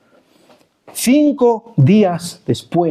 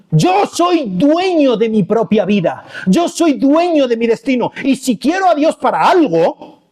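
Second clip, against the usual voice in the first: emphatic, raised-pitch declaration; defiant self-assertion; 5 semitones higher than usual. Acted. Preacher playing someone who wants God at their command, defiant. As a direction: lay down the law defiantly.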